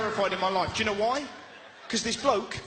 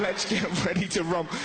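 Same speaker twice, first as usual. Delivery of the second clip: rally cry; 3 semitones lower than usual. Shown as a demonstration. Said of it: "Never start a wank with a rally cry".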